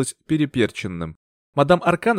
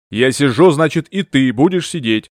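louder, rough growl of a master; growled order; 6 dB louder than usual. Acted. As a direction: bark the order down at the housekeeper. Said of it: "прорычал хозяин поместья".

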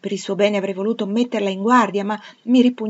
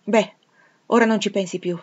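impatient interruption; 2 semitones higher, 6 dB louder than usual. Acted. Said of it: "la interruppi spazientita".

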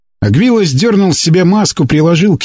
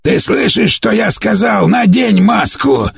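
angry exclamation; 6 semitones higher, slower than usual. A narrator's reading. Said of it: "с гневом ... воскликнул".

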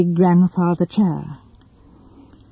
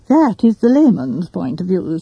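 dry. Acted. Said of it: "said Sir Henry dryly".

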